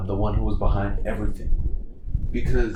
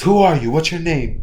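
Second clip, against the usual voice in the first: demanding; 6 semitones higher, 5 dB louder than usual. Retold or imitated. Deku in fighting stance, suspicious.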